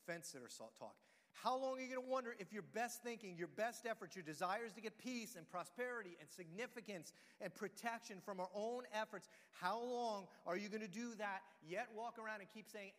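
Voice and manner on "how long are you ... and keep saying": preaching at full force. Acted. Preacher challenging the fence sitters, loud and pressing. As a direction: press the question hard and loud.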